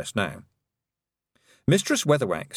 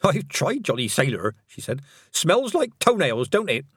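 put-on cheerful old witch; 4 semitones higher than usual. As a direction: share a cosy joke. Missus Ogg chatting.

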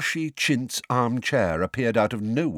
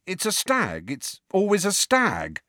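high-pitched, slightly desperate insistence; impatient, slightly desperate; 12 semitones higher than usual. A narrator's reading. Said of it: "feeling both impatient and slightly desperate".

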